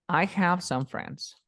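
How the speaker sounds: very slow, careful English demo; slow model sentence. Shown as a demonstration. Teacher models the English example for the student, slow and clear. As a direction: say it slowly so the student can follow. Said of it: "Diría".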